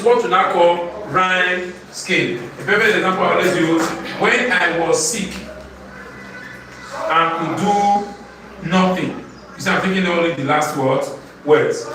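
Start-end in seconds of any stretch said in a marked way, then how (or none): 4.2-9.2 slow, spaced-out poem reading; measured classroom recitation. Shown as a demonstration. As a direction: recite line by line, pausing before the rhyme word.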